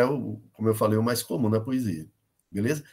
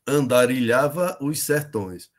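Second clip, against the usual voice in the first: slow, measured count of each syllable; slower than usual. Shown as a demonstration. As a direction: scan the line slowly, as if counting on fingers. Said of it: "contando nos dedos aqui". (escandindo devagar, sílaba por sílaba)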